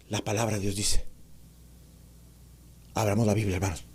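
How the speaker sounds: voz baja y monótona, sin variación; sermón plano y apagado; monótono. Shown as a demonstration. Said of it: "Es monótono también". (predicación monótona en voz baja)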